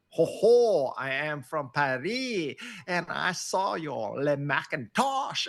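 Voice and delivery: put-on a light send-up of a French accent from a Parisian asking a rambling question; mock French accent. A Parisian in the back row asking a rambling question, lightly mocked French accent. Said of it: "British accent or something or French accent".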